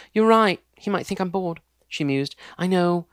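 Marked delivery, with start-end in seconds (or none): 0.1-1.6 musing fiancée. Acted. Jessica muses. 2.6-3.1 bright, pleased idea. Acted. Fiancée hits on a plan, bright and pleased. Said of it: "she said brightly".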